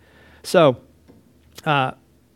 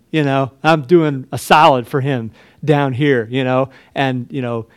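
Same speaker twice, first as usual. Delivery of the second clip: mock boastful; 5 dB louder than usual. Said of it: "Blah, blah, blah. we don't talk like this".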